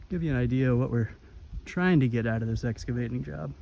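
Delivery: winded from the steep climb; puffing between words; out of breath. Real, not acted. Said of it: "let me catch my breath here".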